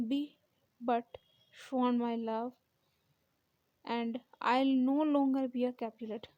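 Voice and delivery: slow, measured soliloquy reading; Juliet. Acted. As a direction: recite it slowly, pausing between phrases, mildly acted. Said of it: "जो सोलो लकी है वो कहती है".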